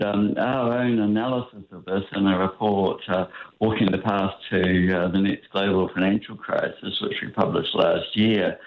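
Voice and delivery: distant, echoey phone line; on speaker, away from the phone; echoey speakerphone. Real, not acted. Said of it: "you're sounding a tiny bit echoey".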